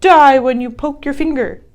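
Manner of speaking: hammed-up wicked fairy curse; retelling Sleeping Beauty's bad fairy cursing. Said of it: "she says".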